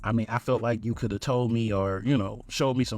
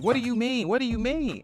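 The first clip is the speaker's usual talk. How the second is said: lightly raised defensive date voice; mimicking date; 9 semitones higher than usual. Date protesting at the bar, mock defensive voice. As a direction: she protests, a bit higher. Date's voice acted high.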